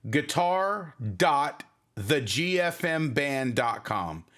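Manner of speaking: slow, careful web address; spelled out slowly. Shown as a demonstration. Streamer giving the giveaway link, slow and careful. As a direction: say the address slowly so viewers can type it. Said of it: "someone type this in".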